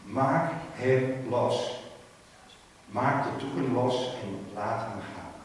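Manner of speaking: Jesus ordering the grave cloths off, slow and loud; commanding call. Acted. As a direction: spell out the order word by word. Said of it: "Jezus roepen".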